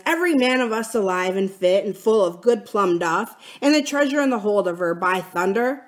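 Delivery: heated pirate tirade with sudden high bursts; vehement. Acted. Silver answers the mutineers' charges, vehement. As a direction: throw the blame back with force. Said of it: "talking with a vehemence that shook the house".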